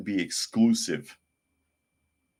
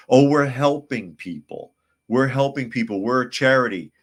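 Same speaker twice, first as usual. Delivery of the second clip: mock self-righteous; 5 semitones higher, 6 dB louder than usual. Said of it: "claim to be providing a service".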